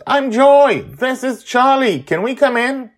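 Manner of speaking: put-on high, loud eager child voice; shouting girl. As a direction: call through the window to her. Joy shouting through window.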